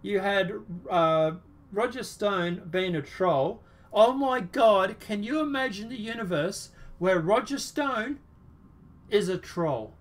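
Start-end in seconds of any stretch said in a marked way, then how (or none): 3.9-9.9 mock amazement, drawn-out exclamations; sarcastic shock. Host mocking the Roger Stone troll story, sarcastic shock. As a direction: feign utter astonishment, hammed-up.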